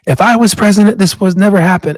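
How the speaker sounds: a hint of a boastful old man; Trump impression. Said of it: "He said that".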